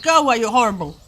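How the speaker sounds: a loud, upset telling-off; upset outburst. Acted. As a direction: send him away loudly, upset. Upset Peter tells man off.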